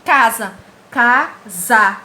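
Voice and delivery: CASA com A aberto, nada pelo nariz; som oral, sem nasalizar. Shown as a demonstration. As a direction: repetir "Casa" separando CA e SA, vogais orais. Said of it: "Você não sente nada saindo no nariz". ("casa" claro e forte, sem nasalidade)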